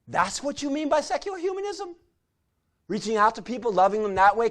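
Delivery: mild surprise. Retold or imitated. Christian friends, surprised.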